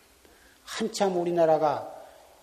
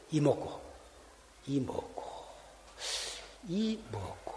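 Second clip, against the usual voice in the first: hushed repetition; 11 dB quieter than usual. Shown as a demonstration. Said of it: "repeating the hwadu softly".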